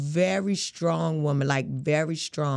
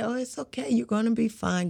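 imagined reassurance; 4 semitones higher than usual. Pretend. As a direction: play someone gently soothing her. Imagined comforting words, acted.

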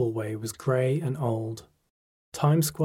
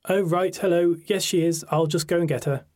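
higher, louder, a hint of a friend's dad; lightly voiced father; 6 semitones higher, 5 dB louder than usual. A narrator's reading. Friend's father goes to fetch his daughter, lightly voiced dad. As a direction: lightly play the dad on the phone. Father recognises caller on phone.

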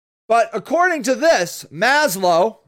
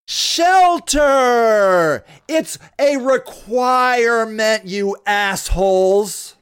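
angry; 3 semitones lower, much slower than usual. Real, not acted. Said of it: "God, I'm angry".

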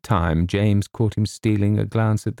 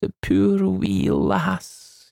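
tearful; 8 semitones higher than usual. Acted. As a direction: choke up over the poor wee lass. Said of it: "tears suddenly filled his hard-boiled eyes".

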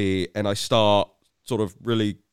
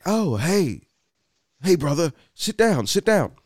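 brash greeting; 7 semitones higher than usual. Retold or imitated. Bannon greeting him at table.

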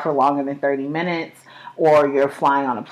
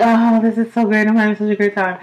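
mock cheerful; 5 semitones higher, 4 dB louder than usual. Mock cheerful vacation couple.

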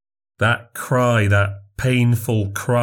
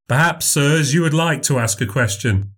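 higher, bright showman voice performing for a crowd; showman memory act; 5 semitones higher than usual. Acted. Memorizer to hecklers.

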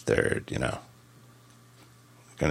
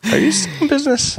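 snarky analyst voice; faster than usual. Pretend. Acting as analyst on call.

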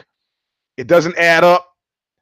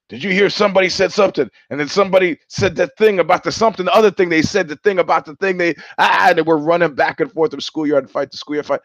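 higher, breathless-sounding run of chatter; hammed-up excited babble, tumbling onward; mock frantic gossip; 4 semitones higher than usual. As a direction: imitate people running wild with outrage. Mocks frantic outrage gossip chatter.

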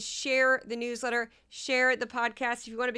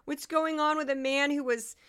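higher-pitched parody of keen fans; mock eager fans; 4 semitones higher than usual. Podcaster mocks imagined Kevin Spacey fans, mock eager. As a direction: lightly imitate fans desperate to hear. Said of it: "Kevin Spacey fans that are like".

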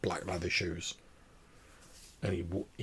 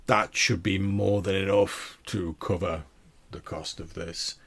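loud, slow, grand baron; big, unhurried customer voice; deep-voiced man; 4 dB louder than usual. Baron paying the tailor in coins, grand deep-voiced man. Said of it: "this deep-voiced man".

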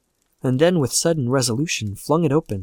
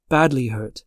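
ordinary delivery, nothing marked

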